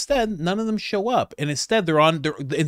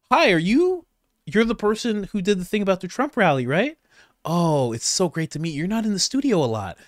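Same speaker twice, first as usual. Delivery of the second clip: mock cheery boss; 3 semitones higher than usual. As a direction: gush like a host sarcastically. Mock greeting of fired correspondent.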